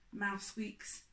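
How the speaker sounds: put-on lilting read-aloud voice for children; storybook reading. A narrator's reading. Reading a picture book to young listeners, lilting.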